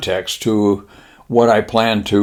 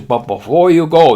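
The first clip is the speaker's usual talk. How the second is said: lightly voiced Japanese admiral, pitched up; slight put-on Japanese accent, higher voice; 6 semitones higher than usual. Admiral promising pilots leave, light mock-Japanese voice. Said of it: "the admiral says".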